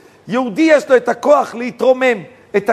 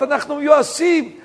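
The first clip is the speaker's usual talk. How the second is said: high-pitched mock lament of the hopeless; retold despairing wail; 6 semitones higher than usual. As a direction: plead it high, imitating people in despair. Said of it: "מתחילים לבכות".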